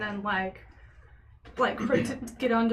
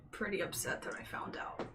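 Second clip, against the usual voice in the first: whispering; 3 semitones lower, 12 dB quieter than usual. Acted. Whispered sleepover gossip.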